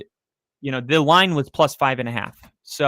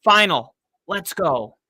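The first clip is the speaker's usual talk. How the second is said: elated call; 4 semitones higher, 3 dB louder, slower than usual. Real, not acted. Fan celebrates game ending.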